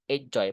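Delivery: quick low "Enjoy", weight on falling "joy"; stress on second syllable. Shown as a demonstration. Teacher explaining the stress, weight on "joy" in "Enjoy". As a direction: drop onto "joy" in "Enjoy". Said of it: "Penekannya di joy-nya".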